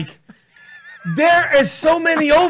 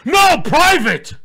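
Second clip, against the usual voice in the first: guilty defensive; 4 semitones higher, 4 dB louder, much slower than usual. Retold or imitated. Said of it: "But if you're cheating".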